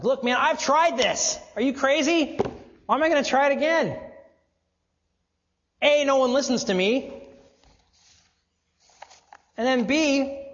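exasperated complaint, pitched high and loud; frustrated man. Retold or imitated. Preacher voicing a frustrated father who has given up. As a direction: vent like a fed-up guy who's tried everything. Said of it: "you're just frustrated".

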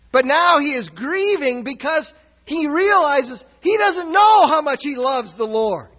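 loud, high-pitched preaching climax; preaching shout. Real, not acted. Preacher shouting to his congregation about Peter's grief. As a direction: drive the point home at full voice.

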